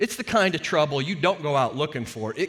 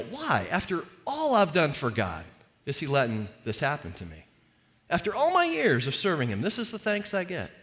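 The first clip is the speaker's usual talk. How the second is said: put-upon, mildly indignant grievance, pitched up in places; mock-aggrieved questioning; entitled complaint. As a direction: lightly act out someone who feels owed better. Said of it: "There's the entitled why".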